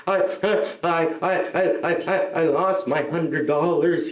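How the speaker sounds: halting, hiccuping mock sobs; imitated crying child. Kid tells comedian of lost money, stammering mock sobs. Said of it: "this kid started crying".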